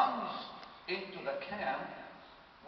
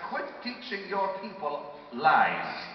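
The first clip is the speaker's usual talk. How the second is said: mildly angry rebuke, slow and emphatic; slow, stern retold telling-off; retold anger; 6 dB louder, much slower than usual. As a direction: imitate scolding a whole church. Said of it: "So I got angry".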